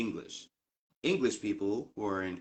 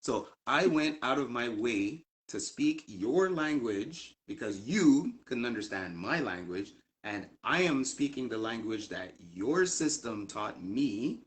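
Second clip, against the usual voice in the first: indignant rant about a rude clerk, louder and slow; 2 semitones higher, 3 dB louder than usual. Real, not acted. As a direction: lay out the injustice, loud and slow.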